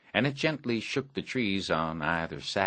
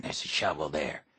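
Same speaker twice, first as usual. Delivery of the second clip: whisper; 3 semitones lower, 3 dB quieter than usual. Acted. Sneaking to the barn.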